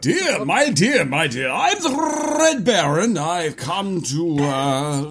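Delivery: put-on German accent; lightly voiced German accent. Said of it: "This is his German accent".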